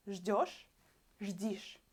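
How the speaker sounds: ждёшь with yo then ждишь with i; right vs wrong vowel. Shown as a demonstration. Teacher contrasting correct and wrong forms for students. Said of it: "I will put e instead of yo".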